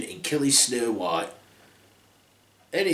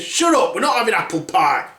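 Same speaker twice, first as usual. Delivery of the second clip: grumpy snap; 2 semitones higher than usual. Acted. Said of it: "Grumpy said".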